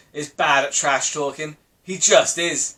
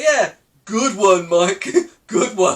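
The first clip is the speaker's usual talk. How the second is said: sarcastic; 3 dB louder, slower than usual. Real, not acted. Sarcastic reply to Perry.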